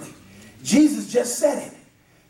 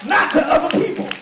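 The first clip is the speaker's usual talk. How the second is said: driving, punchy pulpit delivery building to a louder close; forceful exhortation in rhythmic bursts; preaching at full force; 3 dB louder than usual. Real, not acted. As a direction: preach it hard, hammering the key words.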